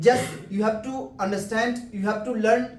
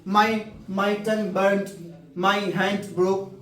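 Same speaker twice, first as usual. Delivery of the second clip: Indian translated way; much slower than usual. Shown as a demonstration. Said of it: "भारतीय पहले क्या करेंगे वैसे".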